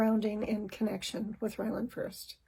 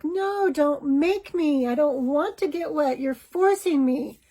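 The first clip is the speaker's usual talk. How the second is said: put-on higher, louder child's voice, a slow pleading protest; squirming child protesting; 4 semitones higher, 3 dB louder than usual. Son squirming away from his dad, high pleading protest. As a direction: plead like a cornered little boy. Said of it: "he squirmed away from his dad".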